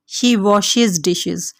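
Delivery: very slow, each word laid out for learners; slow model sentence. Shown as a demonstration. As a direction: dictate it word by word to the class. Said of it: "teacher models an English sentence".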